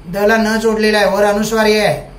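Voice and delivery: ordinary talk, nothing marked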